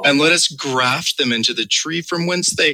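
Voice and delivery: slow, drawn-out innuendo; mock-lascivious reading. Co-host making scripture sound dirty, mock-lascivious. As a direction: stretch the verse out suggestively. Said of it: "read it like it was really dirty".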